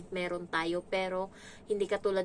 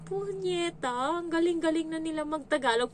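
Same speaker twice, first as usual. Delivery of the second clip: a hint of a cursing kid; 8 semitones higher than usual. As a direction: drag out the curse like a kid. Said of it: "may nakadungaw akong ganun". (mataas na boses ng batang nagmumura)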